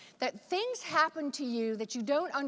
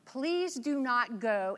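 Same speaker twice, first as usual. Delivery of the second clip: slow, measured politeness, retold; courteous, drawn-out caution; very polite; slower than usual. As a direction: imitate a man politely and slowly warning someone. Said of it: "nodded very politely and said".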